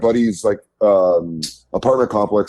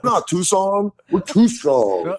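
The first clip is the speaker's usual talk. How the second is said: defiant Tucson local; 9 semitones higher than usual. Acted. Tucson local answering a slight, mock defiance. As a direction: imitate a combative local standing up for Tucson. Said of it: "they go like this".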